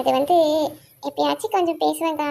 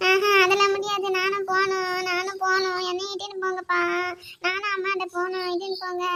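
put-on higher-pitched child's crying plea; tearful whining; 4 semitones higher than usual. Daughter begs father to take her to mother, tearful whining. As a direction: whine to be taken along, fading as you go. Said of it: "இப்ப எதுக்கு அழுவுற?".

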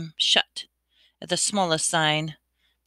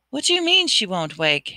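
desperate; 4 semitones higher than usual. Acted. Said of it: "Harry said desperately".

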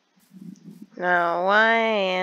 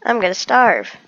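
dramatic complaint; 3 semitones higher, 7 dB louder than usual. Real, not acted. Hungry in game, complaining.

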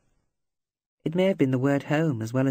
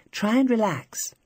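gently coaxing; 7 semitones higher than usual. A narrator's reading. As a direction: ease him into calm. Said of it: "Don't hold your breath".

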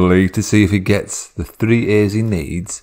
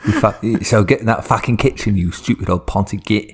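domineering. Acted. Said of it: "really domineering over his dad".

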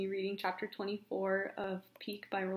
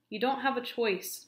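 a touch of raised voice; mild raised voice; 4 semitones higher, 4 dB louder than usual. Acted. Josh overruling Peak, mildly raised voice. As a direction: raise the voice a little, firm. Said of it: "raising his voice".

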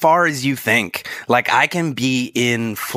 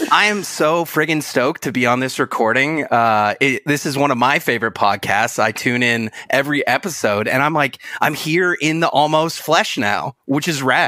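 put-on silly Canadian accent. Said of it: "normally I do the silly Canadian accent".

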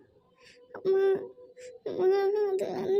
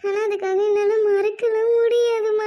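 crying out; 4 dB louder than usual. Acted. Daughter cries out refusal.

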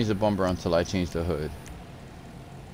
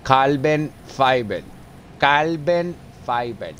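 savoring; 4 semitones higher, 4 dB louder, much slower than usual. Pretend. Savoring the option.

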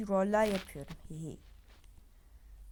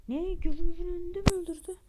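shocked; 6 semitones higher, 6 dB louder than usual. Acted. Character shocked by news.

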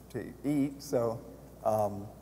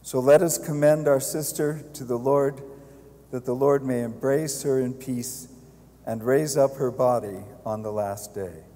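solemn committal prayer, steady and louder; hushed graveside prayer; 4 dB louder than usual. Real, not acted. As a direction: intone it like a priest at the grave.

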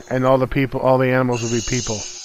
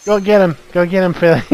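egging on pet; 3 semitones higher than usual. Pretend. Pretends to send cat hunting.

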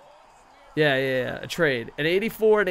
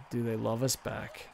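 slower and a little quieter; a fan asking his team, sadly, whether they care; wistful; 2 semitones lower, 5 dB quieter than usual. Shown as a demonstration. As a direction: let the question hang wistfully.

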